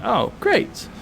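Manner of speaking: lightly voiced sarcastic judge. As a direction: roll the eyes as the judge. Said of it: "The judge is going".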